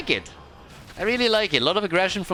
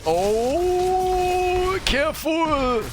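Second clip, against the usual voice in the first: excited; 13 semitones higher, much slower than usual. Real, not acted. Sudden danger in team fight.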